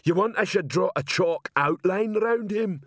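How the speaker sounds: high-pitched troll voice; troll's query, pitched well up; troll sergeant. A narrator's reading. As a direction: ask it as a blunt troll constable. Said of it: "said Detritus".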